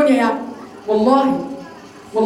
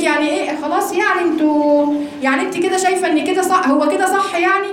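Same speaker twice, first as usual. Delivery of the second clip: lightly acted scoffing, pitch climbing; imitated mockery; 4 semitones higher than usual. Muslim scoffing at a religious woman's beliefs, mild mock disbelief. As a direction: imitate a sceptic's dismissive questioning, rising higher. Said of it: "لما بيتكلم عن القرآن باستهزاء".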